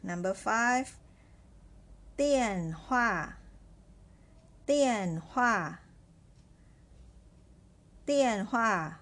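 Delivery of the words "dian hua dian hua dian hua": "dian hua" with both syllables falling; two fourth tones. Shown as a demonstration. Teacher reads test word five to learners, fourth tones. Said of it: "fourth tone as well".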